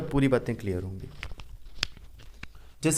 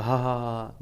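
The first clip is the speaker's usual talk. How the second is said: demo laugh; 2 semitones lower, 6 dB quieter than usual. Shown as a demonstration. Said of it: "ऐसे मुंह बंद करके थोड़ा हंसेंगे".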